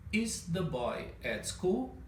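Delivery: slow question with a rise; slow rising question melody; question intonation. Shown as a demonstration. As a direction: ask it clearly, slowly. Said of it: "Com essa entonação de pergunta".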